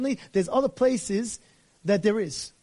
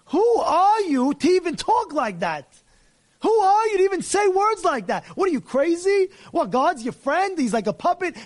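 outraged rebuke; 7 semitones higher, 3 dB louder than usual. Real, not acted. Rabbi outraged at the guy.

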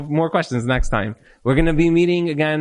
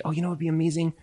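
sweet suggestion; much faster than usual. Acted. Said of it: "If you wanna help me change, you'll say".

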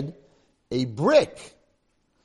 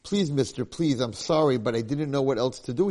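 pleading; 3 semitones higher than usual. Acted. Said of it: "he pleaded".

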